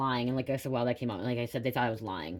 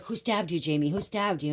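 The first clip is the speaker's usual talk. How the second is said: higher, pressing cop voice; mock police interrogation, pitched up; police questioning; 4 semitones higher than usual. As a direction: imitate an insistent officer demanding answers. Police questioning her after stabbing.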